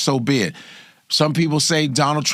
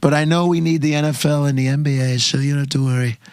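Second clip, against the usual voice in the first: Trump impression. Answering as Trump.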